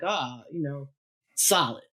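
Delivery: a hint of a cool, laid-back deep-voiced singer; impression of a soul singer. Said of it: "everything you think Barry White would say".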